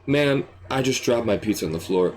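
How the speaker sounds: low, dejected customer; mildly acted heartbreak; on the verge of tears. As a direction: confess it as if close to crying. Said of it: "you're on the verge of tears".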